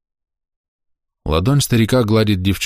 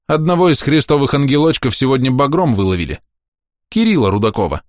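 nervous; 7 semitones higher than usual. A narrator's reading. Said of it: "нервно произнёс Михаил Иванович".

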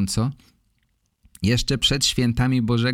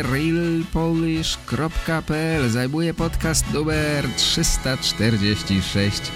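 mock award-show announcement; announcer; 3 semitones higher than usual.

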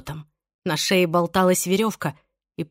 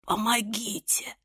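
faint, much softer plea for help; whispered; 2 semitones higher, 8 dB quieter, slower than usual. A narrator's reading. Irene hanging, whispering for help. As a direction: barely breathe the word. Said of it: "прошептала".

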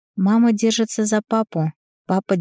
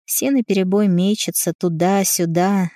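usual speaking voice

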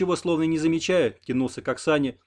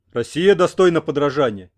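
an unfriendly, loud echoing question; 2 semitones higher, 9 dB louder than usual. A narrator's reading. Interpreter rebuffing Mikola's flattery, unfriendly and loud. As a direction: throw the question back coldly. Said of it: "недружелюбно переспросил тот".

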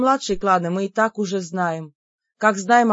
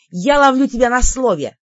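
gloating; 4 semitones higher, 6 dB louder than usual. A narrator's reading. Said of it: "злорадно заявила я".

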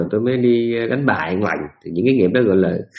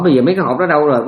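quick, louder, higher demand; urgent demand; 4 semitones higher, 5 dB louder, faster than usual. Retold or imitated. Dying husband urgently asks his wife, fast and louder. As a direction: blurt the question out in a rush.

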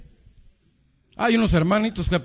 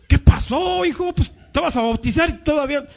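scolding pastor; 7 semitones higher than usual. Retold or imitated. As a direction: tease him like a shocked pastor.

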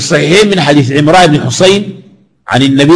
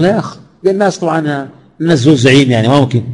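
mock protester; 4 dB quieter, faster than usual. Imagined protest to the Prophet.

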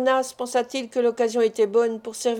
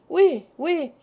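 crowd answering together; 6 semitones higher than usual. A narrator's reading. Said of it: "répondit d'une seule voix l'assistance".

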